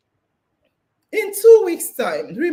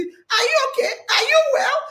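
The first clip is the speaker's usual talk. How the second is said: mimicking concerned people; 8 semitones higher than usual. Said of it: "they will say".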